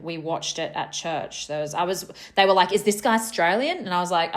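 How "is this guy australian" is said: put-on broad ocker Australian accent; very Aussie accent. Retelling churchgoers' question about a singer, very Aussie accent. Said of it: "said that in a very Aussie accent".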